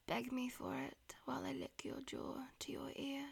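whispering. Acted. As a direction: whisper it close to the ear. Whispered throughout.

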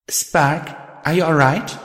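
gently anxious, voice lifted into a question; genuine concern. A narrator's reading. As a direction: check on them with sincere worry. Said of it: "genuinely concerned for the spirit".

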